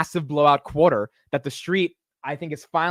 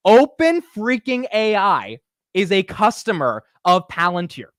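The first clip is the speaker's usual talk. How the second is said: excited disbelief; 3 semitones higher, 4 dB louder, slower than usual. Real, not acted. Stunned news to viewers.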